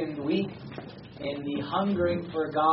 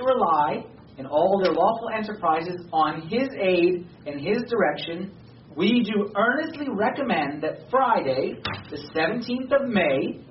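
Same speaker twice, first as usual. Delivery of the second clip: put-on measured, solemn reading of an old decree; formal proclamation reading. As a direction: read it like a historic document to the congregation. Reads a 1776 Congress proclamation.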